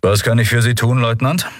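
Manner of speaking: calm. Acted. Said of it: "verblüfft über die Ruhe, die in seiner Stimme lag".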